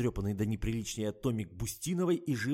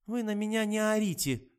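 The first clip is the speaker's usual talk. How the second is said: higher, louder snapping retort; snapping back; 11 semitones higher, 6 dB louder than usual. Acted. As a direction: bite back at the doctor. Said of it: "вдруг огрызнулась девушка".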